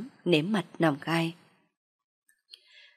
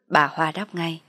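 usual speaking voice

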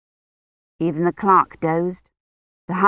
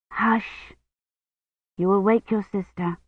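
hushing; 5 dB quieter than usual. A narrator's reading. Hushing near sleeper.

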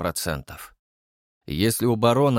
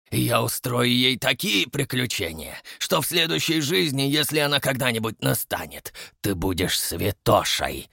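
otherworldly voice. Acted. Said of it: "прошипел Дон потусторонним голосом".

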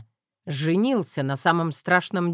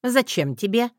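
higher mother's voice, a little louder; teasing mother; 7 semitones higher, 3 dB louder than usual. A narrator's reading. Mother asking her son about the axe, higher voice. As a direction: ask dryly as mum.

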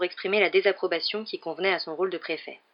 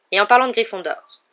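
sec; 2 semitones higher, 8 dB louder than usual. Acted. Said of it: "reprit sèchement".

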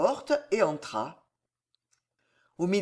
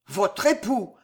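grondé; 3 dB louder, slower than usual. Acted. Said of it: "gronda le connétable".

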